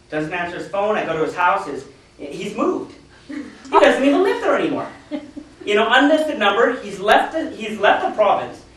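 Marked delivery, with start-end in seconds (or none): 2.5-8.6 laughing. Real, not acted. Laughing at recruit vanishing.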